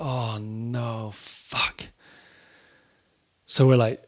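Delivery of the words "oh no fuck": breathy, dismayed "oh no, fuck" under the breath; dismayed whisper. Retold or imitated. Band watching drummer get led away, a dismayed whisper. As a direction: let it slip out unvoiced in dread.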